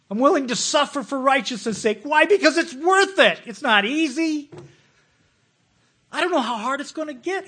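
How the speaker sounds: high, loud, emphatic declaration; fervent loud preaching. Real, not acted. Preacher urging the church, loud fervent cry. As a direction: drive it home to the crowd.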